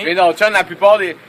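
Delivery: talking through a burp; words broken by a burp. Real, not acted. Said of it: "En rotant".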